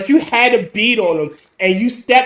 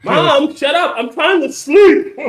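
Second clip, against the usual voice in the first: higher-pitched mock complaint to mom; acted whiny protest; 6 semitones higher, slower than usual. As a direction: whine it like a kid woken up. Acting out annoyed Jason yelling at mom.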